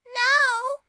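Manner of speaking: high, loud eerie pronouncement; sinister ghostly voice; spooky ghost message. A narrator's reading. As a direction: read it like a haunting curse. Ghost's message on last page.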